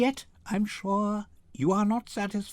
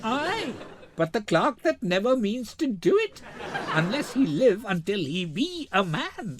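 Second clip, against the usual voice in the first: laughing. Acted. Nerissa teasing Graziano.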